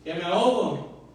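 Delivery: high, pleading cry for help; desperate cry. Retold or imitated. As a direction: cry out like a drowning man. Pedro drowning cries to the Lord.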